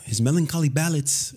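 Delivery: lightly imitated movie character's phrasing; a hint of a film character, stressing melancholy; Luis from the movie. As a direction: quote it with a touch of mimicry. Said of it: "funny the way Luis says it".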